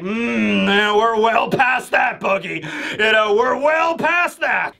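brushing off the begging clown; cold thug. Retold or imitated. Thugs voiced by retelling.

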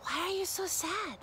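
high, gentle concerned question; caring windmill. Acted. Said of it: "said the windmill".

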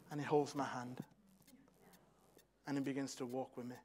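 soft, hushed storytelling; tender hush. Acted. Child finally takes his hand.

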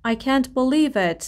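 slow, with weight on "believe"; slow model reading. Shown as a demonstration. Teacher modelling a phrase slowly for students to repeat. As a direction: stretch out "believe" for the class. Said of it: "teacher models the phrase".

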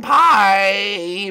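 high drawn-out goodbye; bright sign-off. Pretend. Host says bye to everyone, calling out high. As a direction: call out a cheery farewell.

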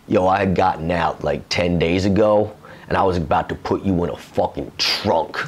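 low, matter-of-fact threat; imitating a deadly serious comic. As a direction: retell a threat in dead earnest, low and casual. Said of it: "he was dead serious when he said that".

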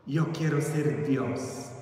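soft, low, slow repeat; hushed declaration. Acted. Boy's ambition sinks in for the listeners, hushed awe. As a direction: say it softly and slowly, dropping low.

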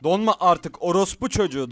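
loud angry shout at the lagging PC; furious yell. Real, not acted. Streamer cursing his freezing computer, furious shout. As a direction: yell it out in real rage.

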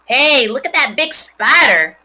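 put-on loud, high boyish exclaim; a boy shouting at a big spider; excited boy. A narrator's reading. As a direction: point it out with wide-eyed excitement.

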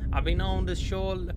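restarted with a lightly put-on stereotypical American accent. Shown as a demonstration. Player resuming the soldier's letter, American accent. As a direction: pick the American accent back up. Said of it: "I don't know if this accent fits, but I'll continue".

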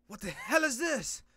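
loud, high, slow disbelieving cry; be stunned by it; shocked hero. Acted. Hero staring at his new power, loud shocked cry.

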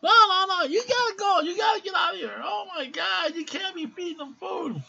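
very high, loud mock nurse yelling; shrieking nurse. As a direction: screech at them like a scandalized nurse. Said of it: "nurse again".

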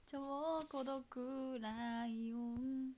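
slow, soft practice of the lyric. Shown as a demonstration. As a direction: draw it out slowly, stretching ぼー. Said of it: "practising lyric slowly". (ゆっくり小声で確かめる)

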